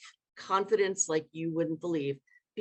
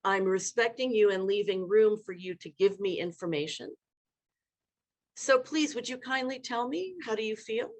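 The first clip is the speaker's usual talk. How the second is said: respectful question. Shown as a demonstration. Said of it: "to say".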